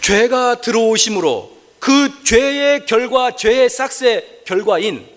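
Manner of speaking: high, slow, drawn-out proclamation; solemn forceful preaching. Real, not acted. (높고 느리게 선포하는 설교)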